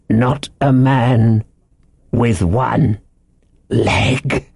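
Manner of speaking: slow, halting, fearful gasp. A narrator's reading. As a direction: break the question up as if breath fails. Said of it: "he gasped".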